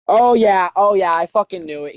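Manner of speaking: loud, excited recognition; excited exclamation. Real, not acted. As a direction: burst out as it clicks. Realizes who the coach is.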